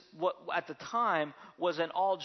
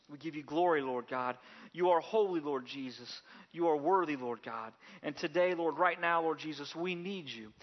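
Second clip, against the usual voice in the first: prayer. Acted. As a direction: pray earnestly, sinking on every "Lord Jesus". Pastor leads opening prayer.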